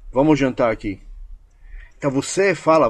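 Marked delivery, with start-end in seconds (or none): 0.1-1.0 dinner invitation as a firm statement; subtle command. Shown as a demonstration. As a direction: state it, don't ask, with a falling end. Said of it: "você comanda".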